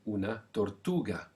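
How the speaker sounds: una tortuga with a hard g; teacher shows the g in tortuga; hard g sound. Shown as a demonstration. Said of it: "We're now making the G sound".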